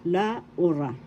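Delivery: U stressed in "La Ura"; stress on second syllable. Shown as a demonstration. Teacher demonstrating the accent, U stressed in "La Ura". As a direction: set "La" apart and lean on U in "Ura". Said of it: "accent is in the second syllable".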